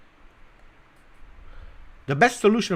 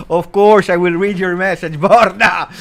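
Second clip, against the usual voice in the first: loud, high mock-hearty shout; big playful yell with laughter breaking in; joking shout; 7 semitones higher, 12 dB louder than usual. Real, not acted. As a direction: belt it out to the teased viewer. Joking shout-out to teased viewer.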